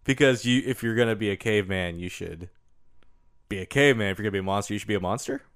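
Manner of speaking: hushed, soft aside; whispering. Acted. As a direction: whisper it like a secret. Hushed mock advice.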